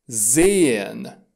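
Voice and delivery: "sehen" with a long e and silent h; long vowel. Shown as a demonstration. Teacher shows H lengthening the vowel, "sehen" with drawn-out e. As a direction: stretch "sehen" into "zeee-en". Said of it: "această vocală este lungă".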